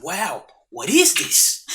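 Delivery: put-on slow, amazed Australian accent, pitched a bit up; imitating an Australian mate tasting plantain slowly. Friend from Australia tasting fried plantain, imitated Australian accent. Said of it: "Is that your Australian accent?".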